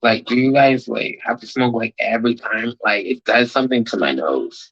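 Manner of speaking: prissy singer complaint. Retold or imitated. Friend mocking the singer's complaint about smoke, lightly whiny. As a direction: complain like a fussy diva. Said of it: "That's literally what she was saying".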